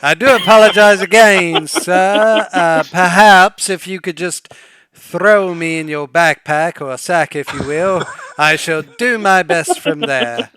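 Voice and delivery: loud apology. Acted. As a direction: speak up eagerly so he hears you. Servant speaks up after refusal.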